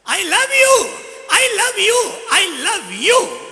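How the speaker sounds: high, loud echoing call; echo of love. Acted. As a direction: let it ring back warmly. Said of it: "गूंज हुई".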